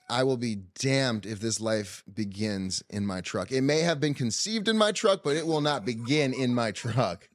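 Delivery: slow, emphatic mock-solemn declaration; retold stubborn oath, measured pace; defiant vow. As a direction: lay it down deliberately, word by word. Acted defiant vow about the truck.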